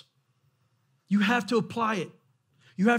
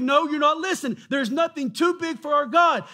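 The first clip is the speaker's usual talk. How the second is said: insistent preaching; 5 semitones higher, 4 dB louder than usual. Acted.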